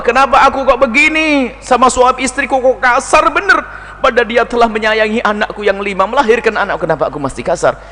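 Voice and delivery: high, anguished self-questioning; remorseful self-reproach. Acted. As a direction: ask yourself why, pained. Voices a remorseful wife.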